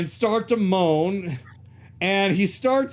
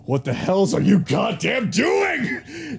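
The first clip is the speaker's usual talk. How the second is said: angry yell. Acted. Grimm yells at Ryudo.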